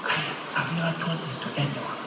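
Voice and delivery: put-on hushed, quick confession in dad's accent; mock-secret father voice, barely voiced; imitating dad's accent. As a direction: confide it very softly, as dad would. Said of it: "In his accent".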